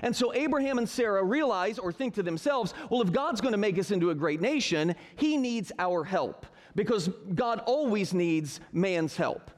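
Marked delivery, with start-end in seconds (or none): 2.9-6.5 sarcastic. Retold or imitated. Teacher mocking Abraham and Sarah's plan, sarcastic. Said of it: "If you're not picking up on the sarcasm". 6.7-9.5 slow, dry sarcastic aside; thick sarcasm. Real, not acted. Teacher mocking to his class, slow sarcasm. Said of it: "I'm putting it down pretty thick".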